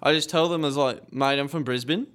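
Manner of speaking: convincing put-on Australian accent. Telling how the team was fooled, Australian accent. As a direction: chat casually as an Australian. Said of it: "I would believe you're Australian".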